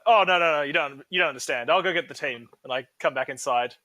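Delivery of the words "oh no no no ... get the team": flustered excuse. Acted. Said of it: "I'm gonna be like".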